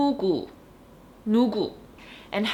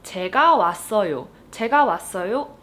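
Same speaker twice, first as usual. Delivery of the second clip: fast, louder Korean sentence; fast example; 5 dB louder, much faster than usual. Shown as a demonstration. Teacher giving the quiz sentence quickly. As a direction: say it at native speed. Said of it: "here's a question for you".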